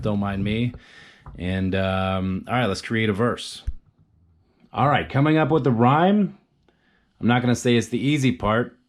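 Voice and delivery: talking around a pen; words past a pen held in the mouth. Real, not acted. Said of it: "Putting a pen in my mouth".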